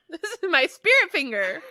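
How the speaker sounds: words through loud laughter; laughing. Real, not acted. Laughing hard at friend.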